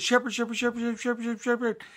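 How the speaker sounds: high, loud excited calling; eager calling. A narrator's reading. Lambs greet the arriving shepherd, calling excitedly. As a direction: lambs running up, calling out over and over.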